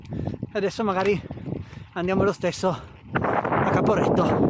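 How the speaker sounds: panting while riding uphill; out of breath. Real, not acted. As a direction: talk between heavy breaths. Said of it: "con il fiatone".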